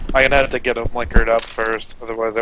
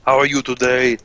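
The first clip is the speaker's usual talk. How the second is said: Arnold accent; 3 dB louder than usual. Shown as a demonstration. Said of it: "serious Arnold Schwarzenegger accent".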